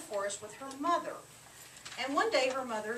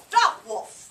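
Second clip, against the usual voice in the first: heroic shout; 8 semitones higher, 11 dB louder than usual. Acted. Woodcutter rescues Red Riding Hood.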